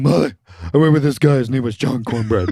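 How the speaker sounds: lightly voiced excited dad; dad calling mom. Dad bursting in to tell mom, light mock excitement. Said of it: "He's, like, calling for my mom".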